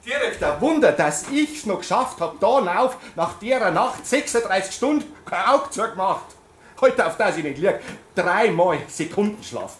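loud, worn-out carer griping; a tired nurse complaining loudly; exhausted rant. Acted. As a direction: vent about the endless shifts.

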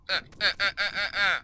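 string of short grunts; grunting. Real, not acted. Player attacking enemies, grunting. Effort noises while playing.

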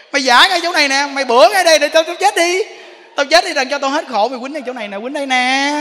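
wife goading husband to hit her; defiant wife. Retold or imitated. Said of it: "Có cô ở đây cũng có nè".

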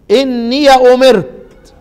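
إني أمرت recited very slowly, ya of إني opened; Quranic recitation. Shown as a demonstration. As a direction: chant it slowly, open the ya. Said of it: "زي ما أنا قرأت كده". (تلاوة إني أمرت بفتح الياء)

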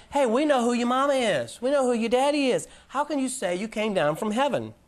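a crowd sneering in disbelief at Jesus; mocking scoff. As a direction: scoff like neighbours who know his parents.

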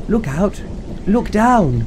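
high warning cry; yelling. A narrator's reading. Drip warning the sisters on the bridge, high yell. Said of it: "who yelled".

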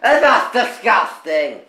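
slow, giggly disgust; laughing. Real, not acted. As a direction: laugh it out, grossed out. Teasing about kissing.

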